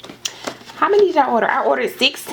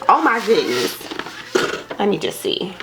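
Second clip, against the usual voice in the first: ordinary talk, nothing marked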